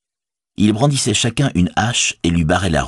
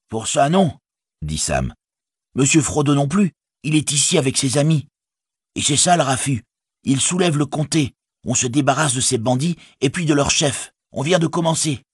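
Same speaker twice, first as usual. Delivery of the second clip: higher-pitched, brisk news-bearer; eager hobbit Sam; 9 semitones higher than usual. A narrator's reading. Sam tells the farmer the Shire rises, eager. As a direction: report the uprising in an eager high voice.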